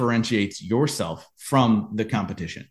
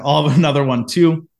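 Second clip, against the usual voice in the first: nervous bravado; 4 semitones higher, 5 dB louder than usual. Retold or imitated. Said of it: "I'm freaking out".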